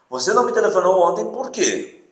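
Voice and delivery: pushy, questioning tone ending on por quê; insistent question. Shown as a demonstration. Teacher reading the example to students, insistently. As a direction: ask it like you won't let it go. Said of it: "já tem uma outra entonação".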